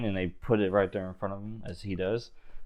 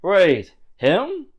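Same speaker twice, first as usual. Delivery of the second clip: incredulous jeering; 8 dB louder than usual. Acted. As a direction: laugh off the little guy. Guards mock stranger.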